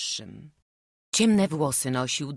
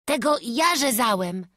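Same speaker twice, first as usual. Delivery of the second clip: stammered whisper; 9 semitones higher, 7 dB louder than usual. A narrator's reading. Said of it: "wyszeptał Wawrzuś zająkliwie".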